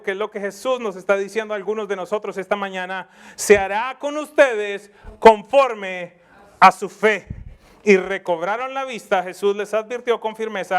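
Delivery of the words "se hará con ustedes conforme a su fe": proclaiming loudly. Acted. Preacher proclaims Jesus' words.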